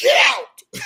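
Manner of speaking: put-on very high, loud, top-of-the-lungs scream. Retelling ordering someone out of the car: imitating screaming at top of voice. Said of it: "I scream at the top of my voice".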